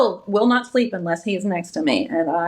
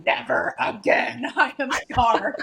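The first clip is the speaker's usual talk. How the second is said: slow, laughing never again; laughing mock husband; 3 semitones higher, slower than usual. Husband refuses another birth, slow and laughing. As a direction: drag it out through a laugh. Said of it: "and A J's like".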